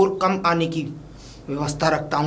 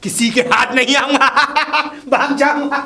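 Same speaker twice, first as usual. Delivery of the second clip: louder, higher, laughing through the words; gloating laugh; 7 semitones higher, 4 dB louder than usual. Acted. Kidnapper baba boasts he won't be caught, laughing and loud.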